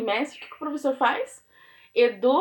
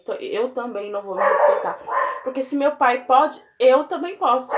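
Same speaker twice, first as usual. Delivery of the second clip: put-on defiant child's logic, rising to loud at the end; imitating a child's reasoning; 5 dB louder than usual. Teacher voicing a child who won't respect his teacher, mock defiant. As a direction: voice the kid justifying himself, getting louder. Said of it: "o que que a criança compreende?".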